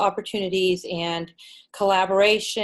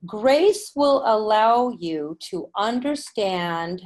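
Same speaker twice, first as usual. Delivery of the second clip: slow, measured inspirational reading; channeled reading; slower than usual. Acted. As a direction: read it like a sacred message. Reads channeled writing.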